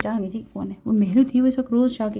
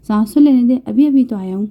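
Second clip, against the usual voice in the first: put-on huffy child; 5 dB louder than usual. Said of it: "ناک منہ چڑھا کر بولا تھا".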